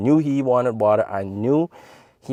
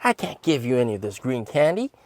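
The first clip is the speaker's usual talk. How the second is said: mock teasing; 7 semitones higher than usual. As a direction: tease him with fake delight. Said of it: "I was like".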